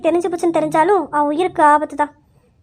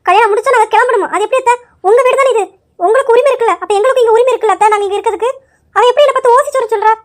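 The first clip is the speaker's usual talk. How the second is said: higher, louder indignant protest; angry complaint; 4 semitones higher, 3 dB louder than usual. Acted. Niece protests loudly to her aunt about being insulted, indignant and raised. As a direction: demand your rights with rising outrage.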